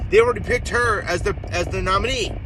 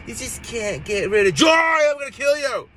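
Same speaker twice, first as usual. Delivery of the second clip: mood swing into rage; 6 semitones higher than usual. Retold or imitated. Voter mocking a candidate's mood swings, erupting into mock rage. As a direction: flip from airy into a hammed-up screaming threat. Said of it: "her mood swings go from".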